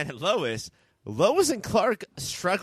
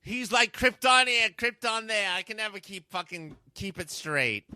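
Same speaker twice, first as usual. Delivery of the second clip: Louie; 2 semitones higher than usual. Acted. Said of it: "my voice is so much different than Louie".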